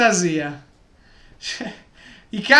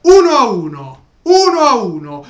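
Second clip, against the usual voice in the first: goal celebration shout; 8 dB louder than usual. Real, not acted. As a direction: scream the equalizer with joy. Fan celebrating equalizer.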